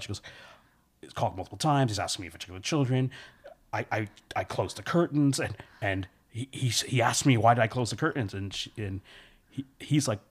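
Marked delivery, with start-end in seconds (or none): 1.0-8.3 breathless, stammering panic; frantic panic. Retold or imitated. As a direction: tumble the words out in fear. Frantic report to the police.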